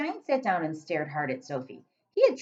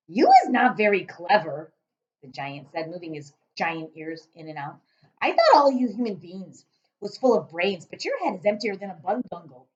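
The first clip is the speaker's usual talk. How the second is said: giant voice; 6 dB louder than usual. Acted.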